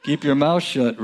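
chuckling through the words; laughing repeat. Real, not acted. Preacher to congregation, repeating the blunt proverb with a laugh. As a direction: laugh as you echo the verse.

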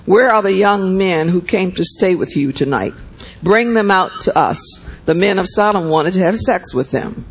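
steady, measured Bible reading; scripture reading. A narrator's reading. Preacher reading Genesis to the church, measured. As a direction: read the passage to the congregation.

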